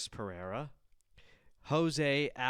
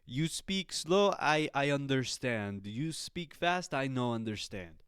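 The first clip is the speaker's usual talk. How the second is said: Alex Pereira. Retold or imitated. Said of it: "that's him just going like".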